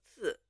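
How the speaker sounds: "刺" as one undivided syllable; whole syllable. Shown as a demonstration. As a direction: say "刺" whole, without sounding out its parts. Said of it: "整体认读音节".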